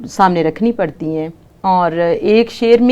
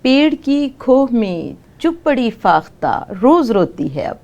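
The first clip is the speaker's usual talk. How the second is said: poem recitation. Acted. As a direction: recite it like at a mushaira. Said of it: "اس میں سے ایک نظم سناتی ہوں".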